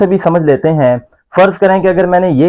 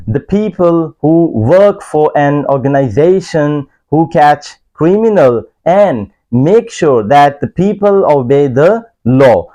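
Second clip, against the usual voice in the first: slow, careful definition reading; much slower than usual. Shown as a demonstration. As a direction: read it out slowly for learners. (धीमी पढ़ाई वाली आवाज़)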